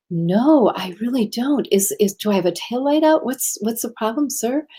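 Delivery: a touch of bewildered politeness; mild puzzled innocence. Retold or imitated. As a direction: retell a puzzled, polite reply to an officer. Retold innocent reply to officer.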